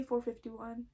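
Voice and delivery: "four fifty-one" read as four, then fifty-one; "four fifty-one", without the word hundred; number reading. Shown as a demonstration. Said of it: "is that how people say".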